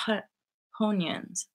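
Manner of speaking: "Honians" with an H put before onions; Newfie-style "Honians", H added at the front. Shown as a demonstration. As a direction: say "Honians" as onions starting with a breathy H sound. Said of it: "add them to O words".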